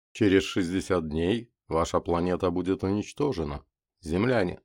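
menacing broadcast from space; alien overlord. Acted. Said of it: "всё тот же сухой баритон".

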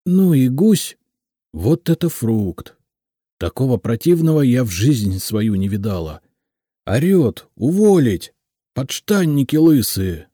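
indignant, high-pitched venting secretary; loud, scornful gossip; spiteful. A narrator's reading. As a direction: rant spitefully about the new boss. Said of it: "злобно сказала Лидочка и прибавила".

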